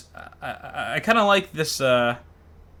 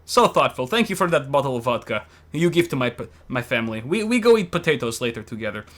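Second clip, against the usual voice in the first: put-on Russian accent. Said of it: "in a Russian accent".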